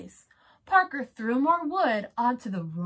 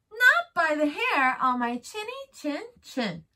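pig voice; 5 semitones higher, 3 dB louder than usual. Acted. Pig refuses the wolf again.

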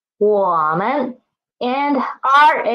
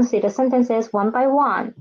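whisper; faster than usual. Real, not acted. Whispered aside in lesson.

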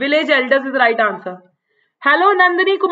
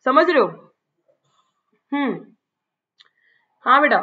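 ordinary talk, nothing marked

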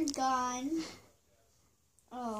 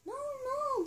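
growling bear; 12 semitones higher than usual. Acted. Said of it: "growled the bear".

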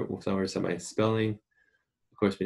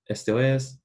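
Latin American Spanish; 3 semitones higher, 3 dB louder than usual. Shown as a demonstration.

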